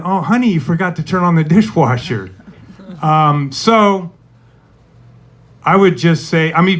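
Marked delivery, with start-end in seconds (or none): 0.0-2.3 sweet. Retold or imitated. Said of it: "quite a bit different than".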